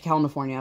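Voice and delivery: "California" said as "Cal-na-fornia", extra n in the middle; "California" with an n slipped in after the l; child's mispronunciation. Retold or imitated. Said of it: "she definitely says it that way".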